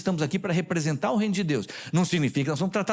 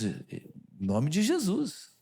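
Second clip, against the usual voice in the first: ordinary talk, nothing marked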